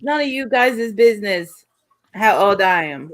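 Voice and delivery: badly attempted Spanish accent. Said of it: "I've done went into a Spanish accent".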